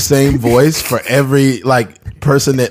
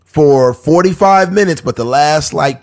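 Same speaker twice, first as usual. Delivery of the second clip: news anchor; 3 semitones higher than usual. Retold or imitated. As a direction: announce it like the evening news. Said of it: "It's just like watching the news".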